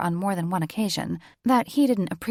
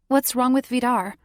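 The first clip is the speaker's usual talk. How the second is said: higher, louder blurt; blurted question; 6 semitones higher, 6 dB louder than usual. A narrator's reading. Annie blurts a question about the old chieftain, higher and louder. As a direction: blurt it out before thinking. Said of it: "Annie blurted".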